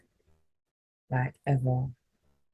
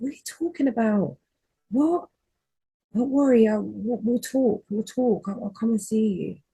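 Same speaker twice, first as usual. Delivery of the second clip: higher and louder, rushing in shocked panic; frantic, voice jumping up as the news sinks in; panicked disbelief; 7 semitones higher, 4 dB louder than usual. Retold or imitated. Retelling the call to her sister, high and frantic.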